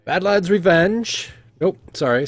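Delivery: slow, high, stretched announcer call; Talabir announcing. Acted. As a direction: draw out the team name to the arena. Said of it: "you can hear Talabir say".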